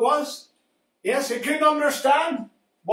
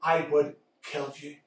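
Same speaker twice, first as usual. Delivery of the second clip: low threat; 5 semitones lower than usual. Acted. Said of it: "He said".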